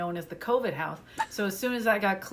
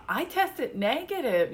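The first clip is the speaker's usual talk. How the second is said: lightly voiced mother, higher and drawn out; slow, higher imitation of mom insisting; retold mother; 6 semitones higher, slower than usual. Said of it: "So she'll say".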